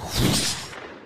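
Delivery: breathy rushing blast; voiceless whoosh of a sudden hit; imitated whoosh. The high hitting him again, imitated whoosh.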